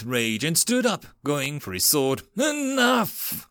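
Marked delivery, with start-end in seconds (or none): 2.4-3.5 sudden high roar. Acted. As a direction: bellow it to silence the room. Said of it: "Duke Sturm roared".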